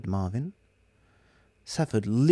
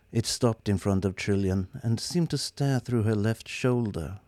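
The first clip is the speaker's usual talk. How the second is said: ordinary delivery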